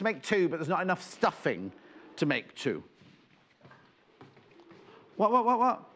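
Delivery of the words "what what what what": surprised. Real, not acted. Surprise on air.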